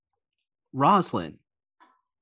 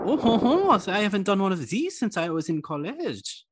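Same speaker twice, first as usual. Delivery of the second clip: delighted high voice; 8 semitones higher than usual. Acted. NPC Apolline delighted.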